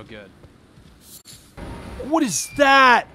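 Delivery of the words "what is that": higher, sharp burst of surprise; startled question. Real, not acted. Player spotting a strange creature, startled question. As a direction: blurt it out in surprise.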